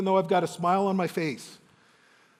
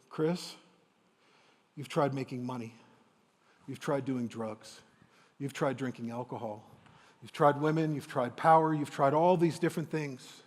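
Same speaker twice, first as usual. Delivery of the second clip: lightly voiced father, softer and tender; gentle father; 3 semitones lower, 4 dB quieter than usual. Father gently listing what his son has tried, softly tender. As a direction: lay it out kindly, not accusing.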